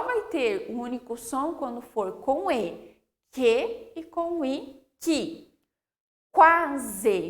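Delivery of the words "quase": quase as kwa-ze, louder, u heard; sounded U. Shown as a demonstration. Teacher modelling the word quase, louder, U pronounced. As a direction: punch quase with a clear w glide. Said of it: "eu pronuncio o U".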